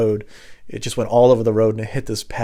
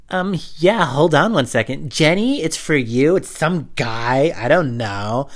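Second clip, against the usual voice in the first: high, loud sing-out voice; put-on relative; 6 semitones higher, 5 dB louder, slower than usual. Relative calls Jenny to the phone, loud high put-on voice. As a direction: call out to another room, stretching words.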